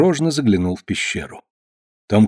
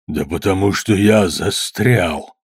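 tragic voice; 4 semitones lower, slower than usual. A narrator's reading. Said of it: "трагическим голосом объявил".

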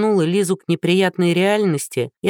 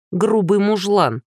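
slow, higher hiss of contempt; hissed insult; 4 semitones higher, slower than usual. Acted. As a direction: spit the insult through your teeth. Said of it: "прошипела Лиза".

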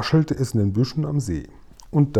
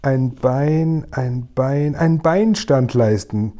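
"ein Bein" repeated haltingly, then a drawn-out "ein Beinstand leisten"; struggling to get out; 2 semitones higher, much slower than usual. A narrator's reading. Giant finally finds his word, haltingly completing "ein Beinstand leisten". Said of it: "brachte der Guri dann noch heraus".

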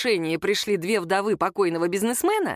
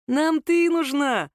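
slow, high and louder menace; menacing thug; 7 semitones higher, 3 dB louder, much slower than usual. A narrator's reading. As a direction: draw it out like a sneering heavy. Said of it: "пояснил долговязый". (долговязый бандит, медленно и угрожающе)

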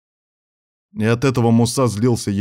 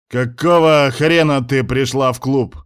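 slow, louder angry snarl; growling; 5 semitones higher, 5 dB louder than usual. Acted. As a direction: snarl it at her. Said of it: "неожиданно зарычал он на неё".

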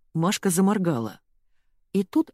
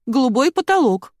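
loud, high, repeating stubbornly; stubborn insisting; 8 semitones higher, 6 dB louder than usual. A narrator's reading. Ирка insists on her idea to the family, loud and stubborn. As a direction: hammer the same point again. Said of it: "толдычила Ирка".

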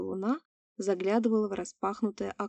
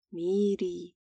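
gurgling alien voice; 2 semitones lower than usual. Acted. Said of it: "прохрипело, пробулькало существо".

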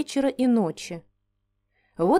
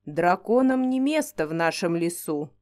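put-on lower, firm voice of an old oak; stern talking tree; 4 semitones lower than usual. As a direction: lay down the law like a forest guardian. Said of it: "строго ответило дерево".

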